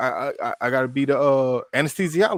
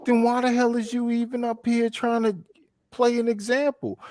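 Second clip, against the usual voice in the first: indignant rebuke; 9 semitones higher than usual. Acted. Resumes acted rebuke of co-director.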